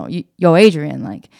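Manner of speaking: lightly voiced Rocky, low and mumbled; Rocky impression. Husband telling his wife he wants to fight again, lightly imitated Rocky. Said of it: "his funny little voice".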